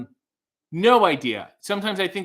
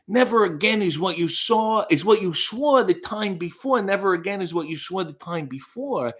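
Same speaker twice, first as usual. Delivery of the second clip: higher-pitched theatrical recitation; dramatic reading; 5 semitones higher than usual. Shown as a demonstration. Reading song lyrics on a viewer's request, dramatic recital. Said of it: "a dramatic reading".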